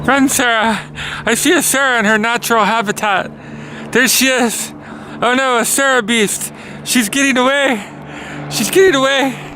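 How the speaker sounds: hammed-up nature-documentary alarm, pitched high; mock panic. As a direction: play at fleeing a wild beast. Mock wildlife chase of Sarah beast.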